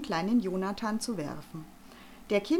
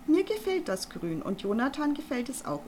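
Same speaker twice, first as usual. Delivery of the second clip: sharp; 5 semitones higher than usual. Acted. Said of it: "unterbrach Arabella Vogel ihn spitz".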